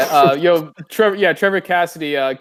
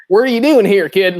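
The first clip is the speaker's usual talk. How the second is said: loud, high Southie construction worker bark; mock Brooklyn-ish Boston accent, loud; 6 semitones higher, 6 dB louder than usual. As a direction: heckle the kid like a Boston construction guy. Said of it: "Massive Southie accent".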